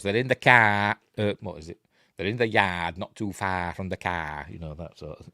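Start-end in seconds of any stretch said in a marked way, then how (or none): 0.0-1.0 put-on New England accent. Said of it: "they say dark". 2.2-4.5 put-on New England accent. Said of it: "they say dark".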